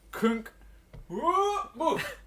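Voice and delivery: loud goofy thud-whoop-woof sounds; silly crash noises. Retold or imitated. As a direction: bark out cartoon falling noises, high and loud. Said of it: "You would have gone".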